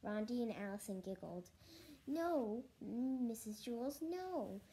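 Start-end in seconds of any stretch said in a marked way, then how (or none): 2.1-4.6 high, drawn-out cry of protest; mild storybook scream. Acted. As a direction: cry out in mock horror, not full force. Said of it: "Jason screamed".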